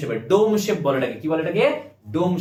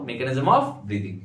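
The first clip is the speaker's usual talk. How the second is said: slow, spelled-out repeat; 4 semitones lower, much slower than usual. Shown as a demonstration. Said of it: "কি বললাম বলো?".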